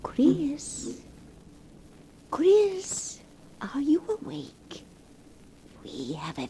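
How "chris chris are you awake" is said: higher coaxing whisper; tender whispered call. Acted. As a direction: gently call him awake. Calling softly to sleeping man.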